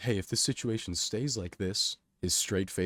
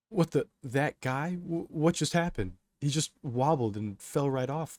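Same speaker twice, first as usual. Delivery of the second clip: raised, startled bystander voice; alarmed murmur; 6 semitones higher than usual. A narrator's reading. Crowd reacting to a man falling on the tracks, alarmed murmur. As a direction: murmur it in disbelief, pitched up. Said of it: "the crowd murmurs".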